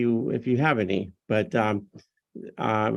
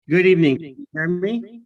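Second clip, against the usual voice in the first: louder, projected greeting; speaking up; 7 semitones higher, 6 dB louder, faster than usual. Real, not acted. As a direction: speak up so the chair can hear. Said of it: "If you could speak up".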